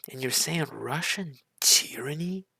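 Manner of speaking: can you believe this, pushed harder on saying; incredulous repeat. Real, not acted. Reacting to a speech, incredulous again.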